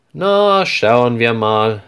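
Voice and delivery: a friendly saleswoman thinking it over, unhurried. Acted. Saleswoman checks the price. (leicht gespielte Verkäuferin, langsam und bedächtig)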